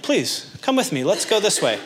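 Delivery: high, sweetly pleading parent voice; coaxing parent. Acted. Parent leading child back to the messy room, coaxing. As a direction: coax a child along, pitched well up.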